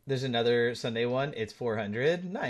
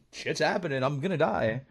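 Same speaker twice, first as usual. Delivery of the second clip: mock panic; 3 semitones higher than usual. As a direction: fake terror for laughs. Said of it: "I did not sound like that".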